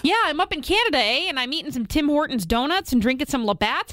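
a hint of a Canadian accent with eh; lightly put-on Canadian gossip; Canadian friend. Host as the Canadian friend complaining about dating, light Canadian accent. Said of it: "act out the part of her Canadian friend".

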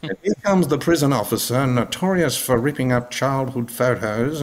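lightly voiced hushed nature-documentary narrator, slowed down; mock wildlife-documentary narration of the prison officer, only a hint of the real thing; David Attenborough impression. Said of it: "I fucking give him the best David Attenborough".

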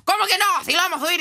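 high mock-indignant outburst; imitated producer yelling. Producer insisting the episode will air, mock indignant yelling. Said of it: "la productora está gritando".

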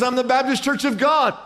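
high-pitched joke character reply; hammed-up jumper; acted earnest answer. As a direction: answer back with voice way up.

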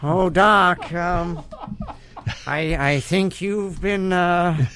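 nasal-free halting, high incredulous Marty voice; Jay Baruchel as Marty McFly. Acted. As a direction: stammer in disbelief as young Marty. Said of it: "Jay Baruchel is Marty McFly".

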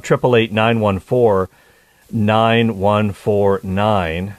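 each digit drawn out slowly; slow number dictation. Shown as a demonstration. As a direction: spell the number out slowly for callers. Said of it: "Is the number to call".

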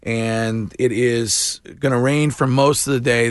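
upbeat sponsored weather and ad read. Acted. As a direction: read it like a radio sponsor spot.

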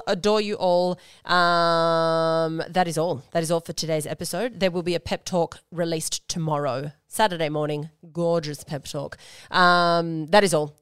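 a bit nasal, like a cold; slightly nasal voice. Real, not acted. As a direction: talk slightly through the nose. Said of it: "my slightly nasally, um, sounding voice today".

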